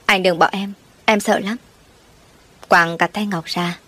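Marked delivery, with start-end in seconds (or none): 0.1-1.6 a touch of begging, voice lifting at the end; understated plea, scared; pleading. Acted. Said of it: "Ngọc cố gắng năn nỉ".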